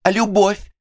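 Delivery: a high, loud, piercing cry; a sudden, piercing cry from the little actress. Acted. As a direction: cry it out over the whole hall. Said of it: "крикнула она пронзительно".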